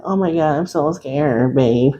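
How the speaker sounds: a hint of a scared partner; mild mock fear, clinging. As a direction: ham up being frightened to your date. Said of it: "You're gonna be like".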